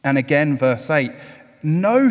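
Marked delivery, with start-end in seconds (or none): 1.6-2.1 a sharp, much higher, louder No; Peter's loud refusal. Retold or imitated. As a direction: shout the No like a proud Peter. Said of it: "said Peter".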